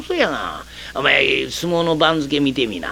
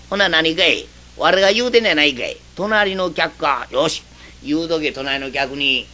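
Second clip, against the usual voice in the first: normal talking voice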